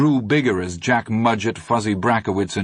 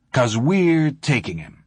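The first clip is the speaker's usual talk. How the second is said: gentle smile; 5 semitones higher, slower than usual. A narrator's reading. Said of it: "Ace smiled gently".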